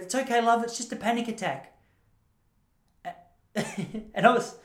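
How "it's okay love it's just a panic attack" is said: put-on kindly old lady. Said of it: "a lady came up to me and she goes".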